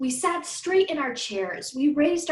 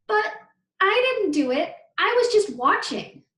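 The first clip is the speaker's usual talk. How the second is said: near tears; 8 semitones higher, 5 dB louder than usual. Acted. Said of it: "It sounded like she might cry".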